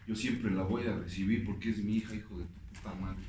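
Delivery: a low, hushed, hurt father's reproach. Retold or imitated. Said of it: "Dice, mira, Giovanni".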